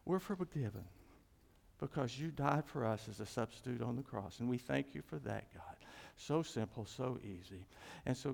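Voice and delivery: steady, earnest prayer voice; closing prayer. Acted. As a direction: lead the church in prayer, gently.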